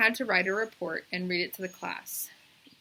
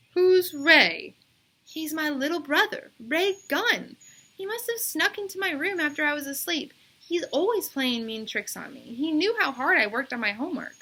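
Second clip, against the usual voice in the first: put-on girl's insistent voice; 8 semitones higher, 5 dB louder than usual. A narrator's reading. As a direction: draw out the yes like a stubborn kid. Bebe explains brother.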